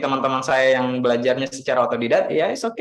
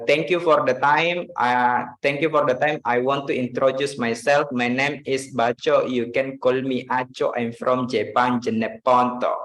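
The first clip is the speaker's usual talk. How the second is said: light imitation of a Jeneponto accent; self-taught English speaker with a hint of Jeneponto accent; Baco. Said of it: "my first friend say like this".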